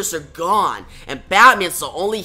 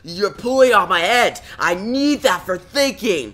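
mild mock scream. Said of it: "Joker screams and says".

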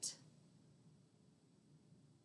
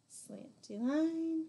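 slow demo; 8 semitones higher, much slower than usual. Shown as a demonstration. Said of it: "Gonna do one more of each".

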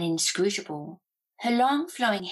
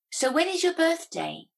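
put-on old witch voice; 10 semitones higher than usual. A narrator's reading. Witch asks, high voice.

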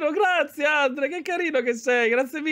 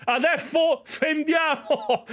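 mock an Italian singer; slower than usual. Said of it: "Sembrava un cantante che dice a suo figlio".

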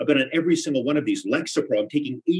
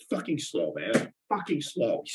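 muttered curse; 5 dB quieter, slower than usual. Acted. Muttering after call.

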